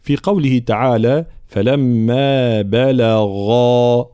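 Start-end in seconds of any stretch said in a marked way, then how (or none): 1.5-4.1 very drawn-out فلما بلغا with full غ; heavy ghayn. Shown as a demonstration. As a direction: swell a dark, voiced غا in بلغا. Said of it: "لابد من تفخيم الغين". («فلما بلغا» بغين مفخمة)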